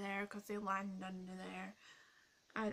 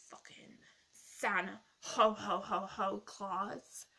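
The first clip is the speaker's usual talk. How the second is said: slow, louder jolly Santa laugh dropped in mid-word; mock Santa ho ho ho; 6 dB louder, slower than usual. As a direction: ham up a booming Santa 'Ho Ho Ho' inside the name. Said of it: "did you like my joke there".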